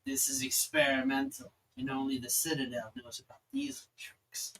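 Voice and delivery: whispered halfling inventor; secretive, breath-only whisper; hushed whisper. Acted. Odd halfling confides his secret procedure.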